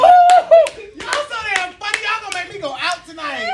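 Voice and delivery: shrill-free mock squeal, high and loud on Ooh; mock the friend in a high squealing voice. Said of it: "I'm like".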